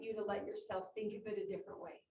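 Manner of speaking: soft unvoiced whisper to the room. Real, not acted. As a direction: lean in and breathe it to them. Invites listeners to reflect differently.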